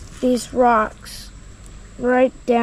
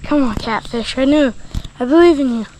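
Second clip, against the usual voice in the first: cheering on; 4 dB louder, faster than usual. Real, not acted. Rooting for catfish in fight.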